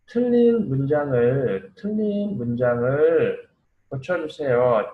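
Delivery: measured, stretched reading of 틀린 문장을 고쳐주세요. Shown as a demonstration. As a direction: draw out 틀린 문장을 phrase by phrase. One more time, modelling for learners.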